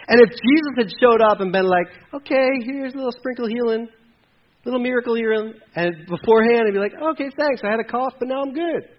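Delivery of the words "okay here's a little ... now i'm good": mock casual. Mocking a casual small miracle.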